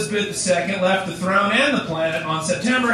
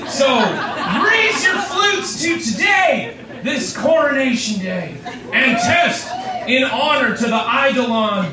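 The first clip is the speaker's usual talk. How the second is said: town crier. Acted. Toasting proclamation.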